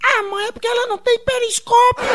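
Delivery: falsete infantil agudíssimo; Sininho. Acted. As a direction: responda como menino manhoso, voz lá em cima. Menino Sininho responde à mãe. (menininho se justificando em falsete)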